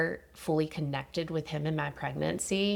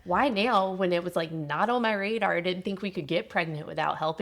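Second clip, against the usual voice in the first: mock angry plea; 4 semitones higher than usual. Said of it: "I was so angry of, like".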